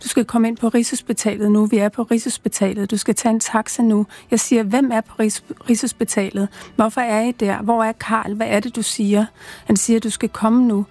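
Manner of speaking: measured reading aloud in short phrases; understated literary narration; author's reading. A narrator's reading. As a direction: read the traumatic memory with restraint, sentence by sentence.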